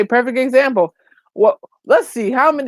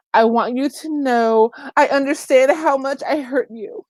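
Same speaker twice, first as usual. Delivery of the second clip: higher-pitched imitation of a tearful apology; mock tearful apology; 5 semitones higher than usual. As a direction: mimic a crying apologizer, lightly. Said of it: "she's crying and she's in tears".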